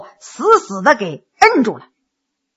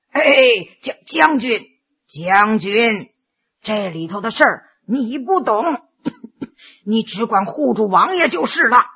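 lower, softened voice of a counsellor; restraining adviser; 4 semitones lower than usual. Acted. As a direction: hold the general back calmly, with a cough. Old adviser restrains the general.

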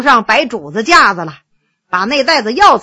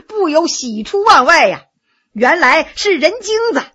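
ordinary delivery

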